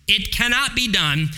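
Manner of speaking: preacher driving the point home to the congregation; emphatic preaching. Acted.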